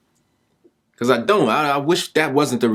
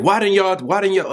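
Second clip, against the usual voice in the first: imitating a crying boy; 9 semitones higher than usual. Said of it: "Now he's screaming, crying".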